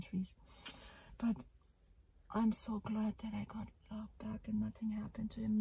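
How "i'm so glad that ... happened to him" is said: relieved whisper. Real, not acted. Relief after bird's near escape.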